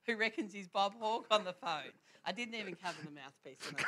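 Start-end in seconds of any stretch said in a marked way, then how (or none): 0.0-1.9 raised, higher call across the room; calling out to Dad. Retold or imitated. Girl calling her dad to the phone, raised call. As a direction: call out to Dad, a touch amused. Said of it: "And I called out".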